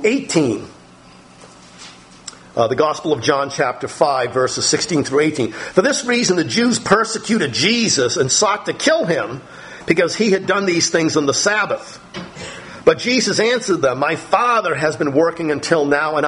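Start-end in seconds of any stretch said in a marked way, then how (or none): 5.5-16.3 lightly lifted, measured Bible reading; scripture reading. A narrator's reading. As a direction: read the verse out to the congregation. Reads a Bible passage aloud.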